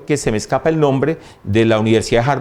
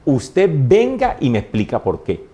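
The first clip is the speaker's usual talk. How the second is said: mild retold motherly scolding, higher pitch; brava sin gritar; 4 semitones higher than usual. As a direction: lay down the rule without shouting. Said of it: "brava, pero nunca decía, nunca gritaba". (regaño firme de madre, sin gritar)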